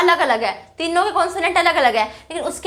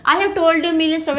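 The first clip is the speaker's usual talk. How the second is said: slow example read; much slower than usual. Shown as a demonstration. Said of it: "hyperbolic का use".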